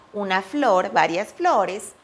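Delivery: "várias flores" said the Spanish way, "b" start and a full final "es"; pronúncia espanhola; Spanish pronunciation. Shown as a demonstration. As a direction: read "várias flores" slowly like a Spanish speaker. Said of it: "Em espanhol também dizemos".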